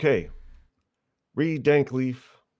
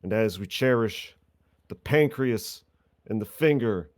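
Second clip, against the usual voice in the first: impassioned courtroom speech. Acted. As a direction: plead to the court with mock gravity.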